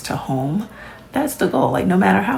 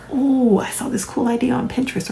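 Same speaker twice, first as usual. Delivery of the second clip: excited idea; 5 semitones higher than usual. Retold or imitated. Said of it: "You're like".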